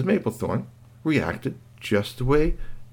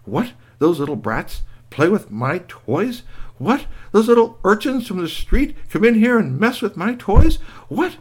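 indignant whats climbing higher and louder; rising outrage; 9 semitones higher, 4 dB louder than usual. Acted. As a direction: build from shock to fury. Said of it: "She was thinking".

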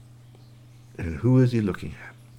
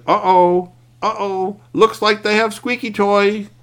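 much higher and louder, worried; alarmed uh-oh; 10 semitones higher, 5 dB louder, slower than usual. Acted. Curtis facing the squirrels, loud alarmed uh-oh. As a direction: blurt it out in alarm.

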